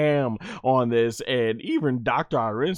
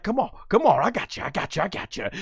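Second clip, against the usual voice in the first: taunting villain; 3 semitones higher, faster than usual. Acted. Villain taunting Goku in quote.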